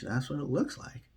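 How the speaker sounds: whispered aside. Acted. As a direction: drop to a secretive whisper. Conspiratorial aside.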